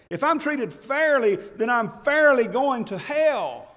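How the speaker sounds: high-pitched, emphatic sermon delivery; impassioned preaching. Acted. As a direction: preach it with urgent conviction. Preaches with rising force.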